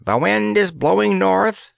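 high, gloomy bird voice; disconsolate crow. Acted. Bill the bird watching the smoke, high and gloomy. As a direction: crow it out glumly. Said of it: "crowed Bill disconsolately".

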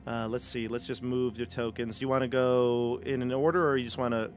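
ordinary delivery

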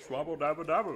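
gurgling fish man croak. Pretend. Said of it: "Mister Glub Glub".

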